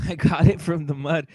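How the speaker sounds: a hint of a mocking tough-guy voice; mock tough boast. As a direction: lightly ridicule the rags-to-riches boast. Mocking boxers' tough claims.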